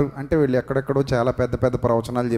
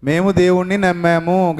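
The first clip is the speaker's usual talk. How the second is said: a firmer, raised declaration of faith; say it louder; 3 semitones higher than usual. Shown as a demonstration. Preacher leads the congregation, saying it louder. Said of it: "గట్టిగా చెప్పండి".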